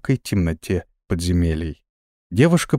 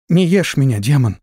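high, scared little squeak; frightened squeak; 5 semitones higher, 3 dB louder than usual. Acted. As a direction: squeak it out in terror. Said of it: "пропищала".

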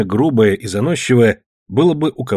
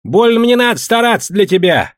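loud, high, mocking refusal; defiant retort; 11 semitones higher, 5 dB louder than usual. A narrator's reading. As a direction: throw the reply back at him. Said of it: "отозвался Тимошка".

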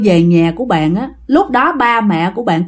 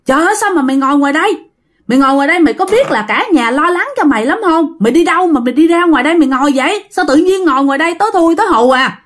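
scolding worriedly; 5 semitones higher, much faster than usual. Retold or imitated. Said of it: "mới chạy tới mới kêu rằng".

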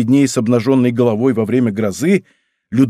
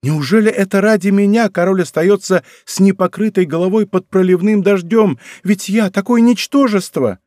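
1 fearful plea; 7 semitones higher, 3 dB louder than usual. A narrator's reading. Louise's frightened plea continues.

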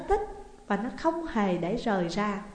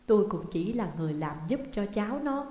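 plain reading voice

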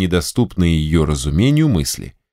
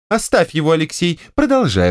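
higher, brisk override; commanding wife; 8 semitones higher than usual. Acted. Wife to general, overruling him. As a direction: overrule the husband.

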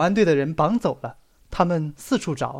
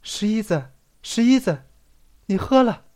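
tender coaxing; 5 semitones higher than usual. Acted. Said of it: "在十一子的耳边说".

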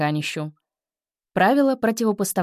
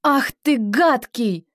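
high, loud scolding cry; loud exclamation; 5 semitones higher, 4 dB louder, slower than usual. Shown as a demonstration. Teacher demonstrating a scolding shout. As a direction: scold loudly, stress on ты. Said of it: "Правило новизны в диалогах".

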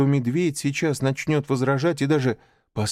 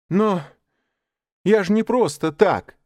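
put-on higher, louder pleading boy; boy justifying himself; 10 semitones higher, 6 dB louder than usual. Mowgli excusing himself to Bagheera, high and pleading. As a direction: defend yourself like a child. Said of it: "начал оправдываться Маугли".

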